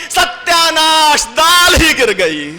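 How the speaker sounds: high, slow call of dismay; wife's mock lament. Wife calling back from the kitchen in mock dismay. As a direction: drag out the fake disaster. Wife's staged reply from inside.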